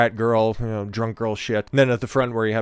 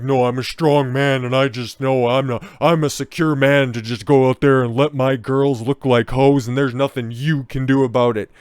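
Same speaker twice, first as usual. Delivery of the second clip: mock proud father; 3 semitones higher, 4 dB louder than usual.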